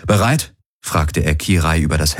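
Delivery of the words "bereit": rising, asking if she is ready; a quick checking question, rising at the end. Acted. Garland asks before the airlock.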